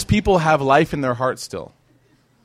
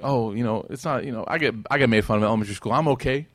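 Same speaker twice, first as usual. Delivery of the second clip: mock brushing off; 2 semitones lower, faster than usual. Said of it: "We act as if".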